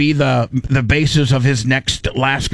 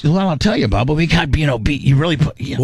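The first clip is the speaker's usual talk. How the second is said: smooth radio host; faster than usual. Shown as a demonstration. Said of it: "You gotta be like".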